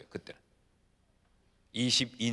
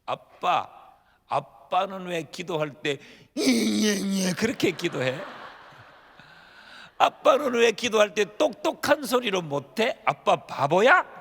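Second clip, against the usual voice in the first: a hint of a small daughter, higher and louder; child's question; 4 semitones higher, 4 dB louder, slower than usual. Small daughter asks her dad why he mumbles, lightly voiced. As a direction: lightly voice a puzzled little girl, rising at the ends. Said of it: "그렇게 하는 거예요".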